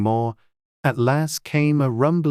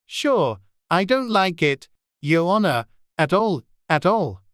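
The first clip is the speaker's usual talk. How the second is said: whispered Irish; 7 semitones higher than usual. Acted. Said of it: "could only hear whispers".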